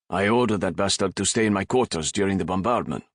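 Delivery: a touch of suppressed anger; bitter words pushed through the jaw; captain seething about the priest to his friend; ground out. Acted. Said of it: "Raffe ground out".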